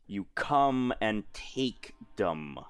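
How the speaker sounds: menacing threat. Acted. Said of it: "she's just like".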